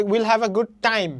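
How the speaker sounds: slow, loud line landing on "time"; weight the final word "time"; stress on TIME. Shown as a demonstration. Teacher demonstrating where stress falls, "time" stressed. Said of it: "টাইমে কিন্তু stress পড়তেছে".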